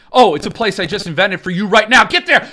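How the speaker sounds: mock God banishing.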